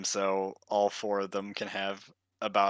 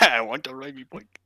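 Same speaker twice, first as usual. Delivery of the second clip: Irish accent. Shown as a demonstration. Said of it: "can't do the voice".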